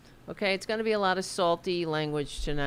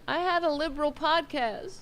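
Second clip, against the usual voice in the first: mock crying wail; 11 semitones higher than usual.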